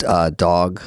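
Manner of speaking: lightly imitated comic with dropped R's; John Lovitz. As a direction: ask it as a deadpan impersonation, "actuh". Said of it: "he asked me once, he goes".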